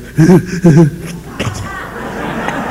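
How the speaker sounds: breathy burst of imitated laughter; imitated newcomer laugh. Newcomer at a meeting bursts out, mimicked laughing. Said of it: "he goes".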